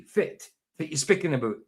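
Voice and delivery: lightly broad Doric, "fit" for what. Shown as a demonstration. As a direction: show the phrase in Doric. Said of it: "I would say fit".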